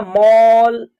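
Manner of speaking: मॉल with a long rounded 'aw'; AW vowel in मॉल. Shown as a demonstration. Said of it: "ए का उच्चारण अ के रूप में". (मॉल में लंबा ऑ)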